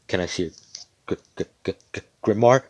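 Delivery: stuttering over "grimoire" in mock fear; scared stammer. Frightened examiner asking Asta for his grimoire, stammering. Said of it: "'Cause he's scared shitless".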